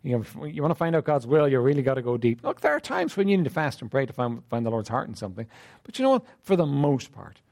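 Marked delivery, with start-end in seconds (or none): 0.0-2.4 mock complaining believer. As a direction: play the worrier who thinks God's will is hard to find. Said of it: "a lot of people think".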